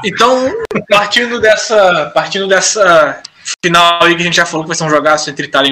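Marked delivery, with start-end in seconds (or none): 0.0-2.1 drawn-out unsure start; slow hesitant restart. Real, not acted. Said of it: "esqueci o que eu ia falar". 2.1-3.2 slow fading restart; trailing off. Real, not acted. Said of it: "esqueci o que eu ia falar".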